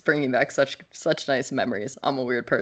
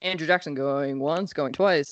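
auctioneer. Pretend. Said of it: "you should be an auctioneer".

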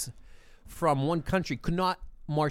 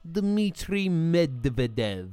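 fake Russian accent; slower than usual. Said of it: "What accent is this, Mike?".

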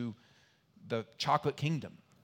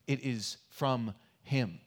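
slow closing line; slower than usual. Shown as a demonstration. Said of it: "closing with".

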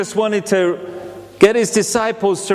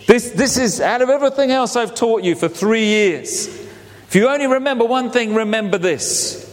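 Jesus urging; 4 semitones higher than usual. Retold or imitated. Jesus urging his disciples, building excitement. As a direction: press it on them, rising urgency. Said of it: "He says".

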